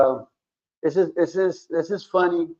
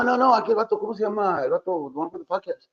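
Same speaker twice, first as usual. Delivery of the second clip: imitated insisting man; 6 semitones higher than usual. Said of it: "He goes".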